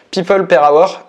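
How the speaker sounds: slow "people per hour" with a French accent, "per" lifted; French-accented English. Shown as a demonstration. Host telling viewers what to type, slow French-accented English. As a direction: read the English name slowly with a French accent. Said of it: "pour mon accent, c'est pas foufou".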